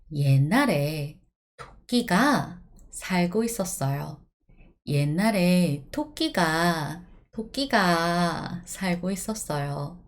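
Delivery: quick, even once-upon-a-time reading; storytelling in Korean. Shown as a demonstration. Teacher telling students a Korean folk story, narrating. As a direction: tell it like a children's tale. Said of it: "I'm gonna tell you a story in Korean".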